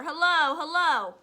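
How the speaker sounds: loud, high parrot call; high-pitched bird shout. Acted. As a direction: squawk it out like a talking bird. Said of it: "bird called down to her".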